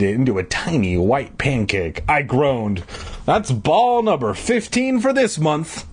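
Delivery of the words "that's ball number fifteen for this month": slow, higher announcement; announcing. A narrator's reading. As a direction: announce it like an official tally. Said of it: "I announced".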